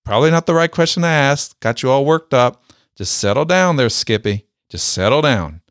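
mock-gruff banter between two master sergeants; teasing it back. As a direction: needle him back playfully, a touch fast. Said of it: "I was kinda throwing it back at him".

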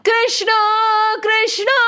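high calling shout; shouting a name. Acted. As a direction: call his name out to the whole village. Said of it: "Every child started shouting".

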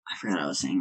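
stoned and losing the thread. Real, not acted. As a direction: drift off, stoned and foggy. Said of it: "I'm sorry, I'm stoned".

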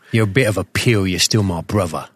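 lightly put-on London accent; mock London accent. Podcaster claims his co-host as brother, in mock London accent. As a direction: play at a Cockney lad. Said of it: "my Jason Statham sort of London thing".

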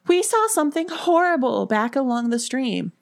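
high-pitched horrified report; gasped. A narrator's reading. Ellen telling Erin of the horrible sight, gasping. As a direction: blurt it out in panic. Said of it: "Ellen gasped".

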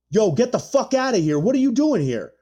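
high, delighted disbelief; like spotting an old friend where you never expected; surprised recognition. Retold or imitated. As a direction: friend stunned to see him backstage, excited surprise. Friend recognizes him backstage.

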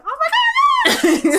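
very high, drawn-out, laughing squeal; swooning, high-pitched thrill; delighted squeal. Retold or imitated. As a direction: gush loudly through laughter. Retold delight at the man's accent.

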